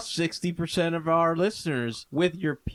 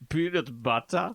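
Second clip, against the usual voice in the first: put-on German accent. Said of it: "Say it in German".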